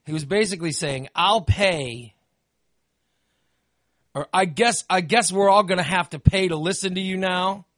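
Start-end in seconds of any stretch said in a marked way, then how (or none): 1.1-7.6 grudging. Retold or imitated. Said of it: "this was the tone of the letter".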